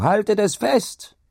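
high, drawn-out urgent shout; slow, high, forceful cry; shouted command. A narrator's reading. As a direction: shout the order, stretching the words. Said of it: "schrie John ihr zu".

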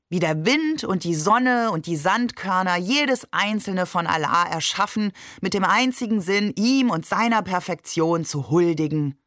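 lightly recited mock sermon; reluctant declaiming. A narrator's reading. Babe recites creation without relishing it, reluctant declaiming. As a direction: declaim it as if it tastes bad. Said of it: "als deklamiere er etwas".

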